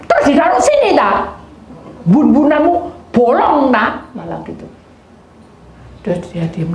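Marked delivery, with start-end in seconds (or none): 0.1-3.9 high, loud teasing comeback; mocking retort. Man taunting the youth, high and loud. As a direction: taunt him back.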